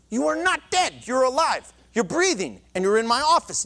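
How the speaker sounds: mildly exasperated doctor, pitch lifted; acted insistence. Counselor contradicting a patient who believes he's dead, insistent. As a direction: argue the point firmly as the doctor.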